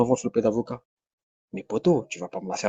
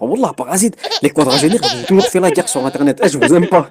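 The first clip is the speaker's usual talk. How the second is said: laughing; 2 semitones higher, 4 dB louder than usual. Real, not acted. Mock rant laughing at forty-year-olds.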